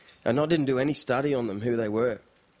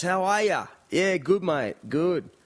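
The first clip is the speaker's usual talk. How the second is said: lightly voiced, higher Aussie greeting; Aussie mate greeting; 6 semitones higher, slower than usual. Japanese mate Nathan answers a greeting, lightly imitated Aussie. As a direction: mimic a mate's easy Australian hello, pitched up.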